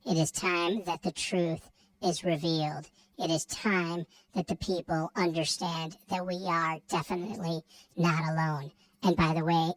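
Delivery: helium-sounding alien voice. Acted. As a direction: speak like a freak alien. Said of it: "did you inhale the helium before you come to this show? Because you sounded like a, like a freak alien".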